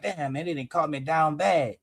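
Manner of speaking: low quiet resignation; defeated voice. Retold or imitated. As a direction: sigh it out like he's been caught. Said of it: "That's the voice I'm getting".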